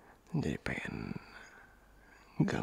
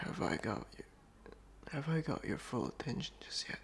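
seductive whisper; 5 dB quieter than usual. Acted. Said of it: "distract you in character".

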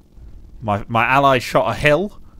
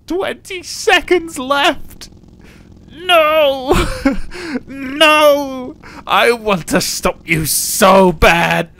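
high desperate yells; frantic shouting; 13 semitones higher, 4 dB louder, much slower than usual. Real, not acted. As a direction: yell as the round slips away. Enemies crossing border, losing.

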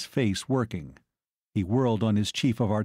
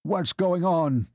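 high, drawn-out shrill demand; 7 semitones higher, slower than usual. A narrator's reading. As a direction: pitch it up, shrill and insistent. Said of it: "Baron Zwerdling shrilled".

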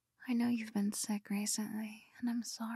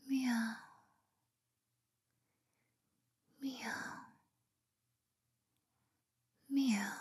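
meowing; much slower than usual. Pretend. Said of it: "What if I meowed in your ear?".

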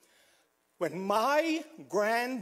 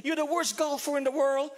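retold yell; 6 semitones higher than usual. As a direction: berate yourself in a raised pitch. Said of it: "I will yell".

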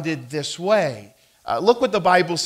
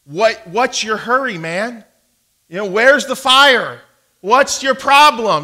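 loud, raised-pitch mock confrontation; angry response; 6 semitones higher, 7 dB louder than usual. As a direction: fire back like an angry driver, acted out. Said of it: "responding angrily".

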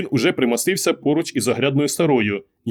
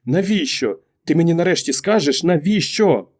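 higher-pitched, pressing questioning; insistent demand; 6 semitones higher than usual. A narrator's reading. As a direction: demand an answer at last. Wife presses husband for an answer. (наполегливо, вимогливо, вищим голосом)

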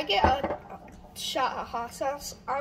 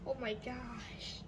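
hushed, slow gasp after the heat; mouth burning from spicy food; 13 dB quieter, slower than usual. Real, not acted. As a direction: breathe out slowly, mouth on fire. After taking hot sauce shot.

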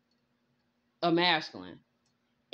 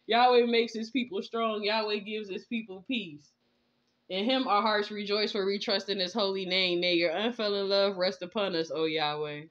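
scripture reading. Acted. Reads prayer and scripture.

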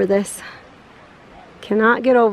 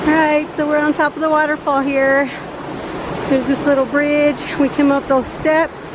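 breathless at high altitude; 2 semitones higher than usual. Real, not acted. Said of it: "Whew, I am out of breath".

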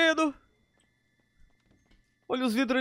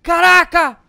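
loud, higher exclamation; astonished shout; 4 semitones higher, 11 dB louder, slower than usual. Real, not acted. Player seeing the destruction outside, astonished shout. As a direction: shout it in amazement.

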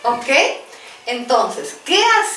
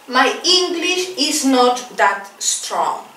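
slow model phrase; slower than usual. Shown as a demonstration. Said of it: "Y otra expresión".

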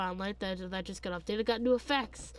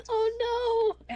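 laughing; 10 semitones higher than usual. Real, not acted. Mock alarm, laughing.

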